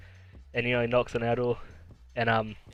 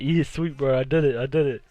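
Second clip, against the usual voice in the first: proud boasting; 2 semitones higher, 5 dB louder than usual. Retold or imitated. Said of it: "He was so proud".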